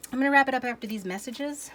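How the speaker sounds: high, loud Saturday morning announcer; cartoon announcer. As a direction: boom it out like a TV cartoon break. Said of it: "Sounded like a Saturday morning cartoon announcer".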